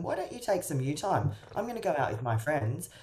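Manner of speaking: a breezy, airy goodbye, mildly performed; breezy reassurance. Retold or imitated. Coach showing what to say to a withdrawing partner, light and breezy. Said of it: "say to them".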